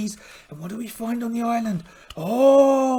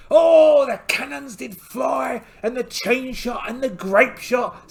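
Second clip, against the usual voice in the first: loud, slow rousing start; rousing battle tale; 3 semitones higher, 4 dB louder, slower than usual. Acted. Pirate captain recounting the cannon fire, rousing battle telling. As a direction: boom it out like a war story.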